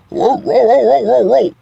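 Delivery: high loud whoa whoa; mock whoa. Preacher mimics cutting off the officer, loud high whoa. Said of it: "calming the ranting officer".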